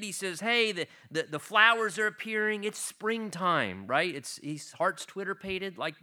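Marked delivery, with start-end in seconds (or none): 0.4-3.9 raised pitch, mildly excited lover. Acted. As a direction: share the news of spring eagerly. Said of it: "And he's super excited".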